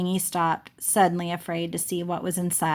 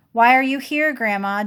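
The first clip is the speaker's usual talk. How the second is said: louder, higher demanding question; near shout; 4 semitones higher, 5 dB louder than usual. Acted. Jessie nearly shouting at Grandma in the teepee. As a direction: press her, almost yelling. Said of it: "practically shouting".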